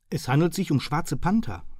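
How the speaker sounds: firm emphatic statement on schwarze Panther; with emphasis. A narrator's reading. Hearson stressing the danger to Murphy, emphatic. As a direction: lean hard on schwarze Panther. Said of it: "mit Nachdruck".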